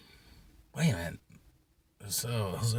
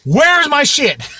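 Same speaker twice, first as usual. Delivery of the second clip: high, very slow, louder plea; mock panic; 9 semitones higher, 4 dB louder, much slower than usual. Searching his boxes, a drawn-out high panicked cry. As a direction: drag it out in comic dismay. Panicking over missing comics.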